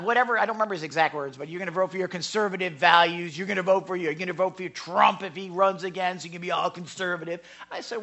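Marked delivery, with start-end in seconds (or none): 1.5-7.4 imitated hostile challenge; mildly accusing retelling of a heckler's questions; mock confrontational questioning. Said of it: "he was very hostile".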